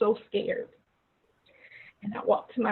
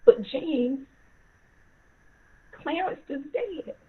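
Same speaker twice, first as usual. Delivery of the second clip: grief near tears; 4 semitones higher than usual. Retold or imitated. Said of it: "my dad crying".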